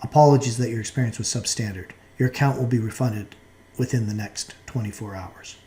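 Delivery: measured official apology; formal, restrained customer-service tone; formal, stiff tone. Shown as a demonstration. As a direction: read it like a formal company notice. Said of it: "Or a more formal tone".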